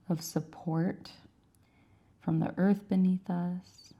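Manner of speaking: unhurried yoga teacher cues with long pauses; measured, calm yoga-class delivery; guided yoga instruction. Acted. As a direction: guide them gently through each stretch, pausing between cues. Leads a gentle yoga practice.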